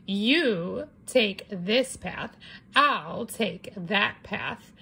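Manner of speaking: very slow, coaxing; sly slow. Acted. Wolf luring Red into a game, slow and sly. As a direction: lure her in gently. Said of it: "I said".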